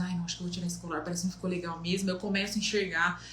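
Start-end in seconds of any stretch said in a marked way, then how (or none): 0.0-2.1 insecure muttered doubt. Retold or imitated. Insecure second thoughts at door.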